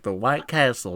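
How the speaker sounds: matter-of-fact mock uncle answer; imitating uncle's explanation. Uncle clarifying the nickname to a puzzled relative, imitated matter-of-factly.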